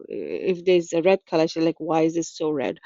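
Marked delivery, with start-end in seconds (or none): 0.1-1.5 louder, whiny imitation of a complaining friend; hammed-up grumble about a red color; mock complaining. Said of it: "that's the way she was actually complaining". 1.8-2.8 a touch of whiny griping; understated complaint about nothing; mock complaining. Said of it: "that's the way she was actually complaining".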